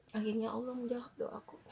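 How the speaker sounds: real tears breaking into the thanks; moved to tears. Real, not acted. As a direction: let the relief come out crying. Moved by answered prayer. (haru sampai menangis)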